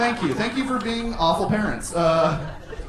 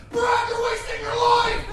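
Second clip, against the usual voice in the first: much higher shouting father; dad yelling. Retold or imitated. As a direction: yell like a disappointed dad. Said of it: "This is my impression of my dad".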